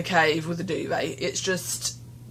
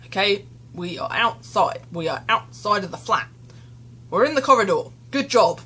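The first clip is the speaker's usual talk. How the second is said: retold mantra, the last bit a little louder; self pep talk; 3 dB louder than usual. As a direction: gently coax yourself along step by step. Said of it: "so I was walking along going".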